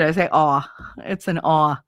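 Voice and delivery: "awe" for R, no r at the end; dropped R. Shown as a demonstration. Explaining her own Jersey way, "awe" with the R dropped. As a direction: say the letter R as plain "awe". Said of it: "even the way I say it".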